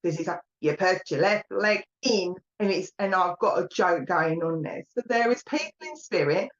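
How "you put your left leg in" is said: put-on slow, laid-on Cockney accent; strong Cockney accent. Medium hamming up the spirits' hokey cokey in slow broad Cockney. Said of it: "I want to put a strong accent in".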